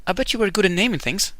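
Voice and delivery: a hint of a cheerful mermaid; Ariel voice. Voicing Ariel in game dialogue.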